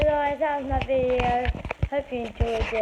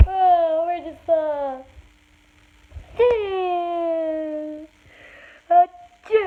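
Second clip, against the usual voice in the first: sad fake sneeze; 4 semitones higher, 7 dB louder than usual. Shown as a demonstration. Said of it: "Sad one".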